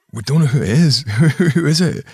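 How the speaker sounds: retold awkward bafflement. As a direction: admit it awkwardly, half laughing. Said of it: "it was really awkward".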